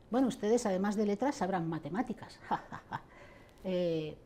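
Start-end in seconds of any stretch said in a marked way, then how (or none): 0.1-3.0 imitating a mocking, jokey speaker; mock-jovial jibe capped with a derisive laugh; jocoso y burlón. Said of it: "Con un tono muy jocoso y burlón decía". (imitando un tono jocoso y burlón, con risita)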